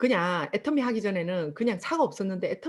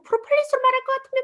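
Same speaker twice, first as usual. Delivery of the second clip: mock sales pitch; 5 dB louder, faster than usual. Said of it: "제가 미쳐가지고".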